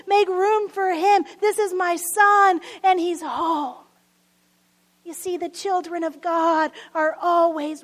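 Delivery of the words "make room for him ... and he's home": raised voice of a father calling servants; acted yell. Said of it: "He yells to his servants".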